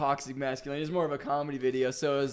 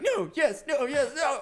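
laughing flip-flop; 9 semitones higher, slower than usual. Retold or imitated. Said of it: "He's like".

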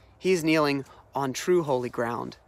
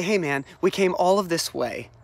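quick, mildly exasperated coaxing; retold nagging from frustrated attendants; getting on his case; 3 semitones higher, faster than usual. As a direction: badger him lightly, like a buddy. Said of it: "they get on his case".

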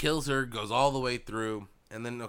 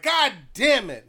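higher, louder, slowed curse; mad curse; 9 semitones higher, 5 dB louder, slower than usual. Retold or imitated. Fan retelling his anger at the episode, mild mock curse. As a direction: spit it out in frustration. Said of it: "I was mad".

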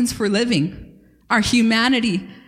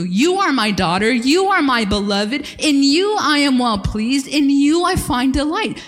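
voice of the Father; 2 semitones higher than usual. Acted. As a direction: declare it over her like a proud father. Father's words spoken over daughter.

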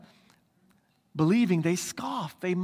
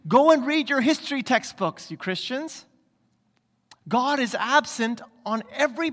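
mocking scoffer; 4 semitones higher than usual. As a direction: taunt the Christians as a scornful critic. Voicing scoffers taunting Christians.

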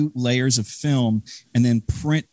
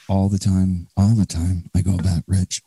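put-on Chicago accent; 2 semitones lower than usual. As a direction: lean lightly into a Chicago accent. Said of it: "if you wanna bring that voice".

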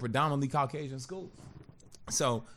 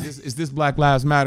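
mock shout; 10 dB louder than usual. Mock disbelief at a mostly white protest.

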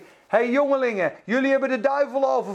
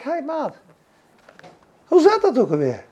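mock casual. Casual confronting question, acted.

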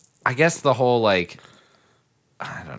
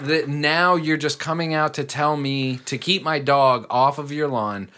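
higher, heated rant; imagined angry retort; 4 semitones higher than usual. Pretend. What he wishes he'd told her, a heated rant. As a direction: let rip at the neighbor. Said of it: "I wish I had been just like".

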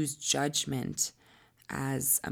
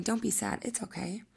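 put-on soothing a baby; 7 semitones higher than usual. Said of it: "soothing a baby in that way".

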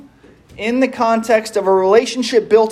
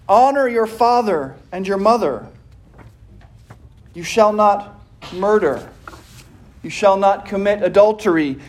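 measured, commanding scripture reading. Acted. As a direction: proclaim each commandment with weight. Reads the Ten Commandments.

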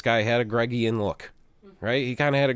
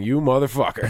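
retelling how he yelled at the stranger, a touch louder; louder mock yell; 4 semitones higher, 5 dB louder than usual. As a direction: punch out the insult a bit louder. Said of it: "That's how we met, was me saying".

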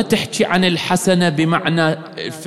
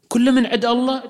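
high, disbelieving question; a questioner's high-pitched disbelief; incredulous question; 10 semitones higher than usual. Retold or imitated. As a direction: ask it as a shocked doubter. Voicing questioner's surprised objection.

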